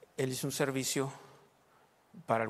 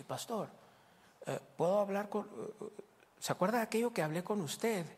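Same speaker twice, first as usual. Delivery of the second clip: imitating the sister; 7 semitones higher than usual. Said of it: "dijo ella así".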